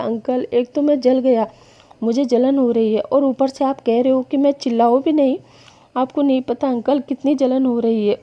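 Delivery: hint of a shivering youngster; young Wing's voice. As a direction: pitch it up a touch for the young man. Wing complains about burn pain.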